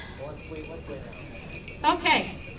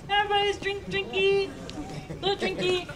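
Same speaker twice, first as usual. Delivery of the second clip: higher playful slurred drinky; tipsy baby talk; 5 semitones higher than usual. Pretend. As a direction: coo it like a tipsy toddler. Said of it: "It's drunk".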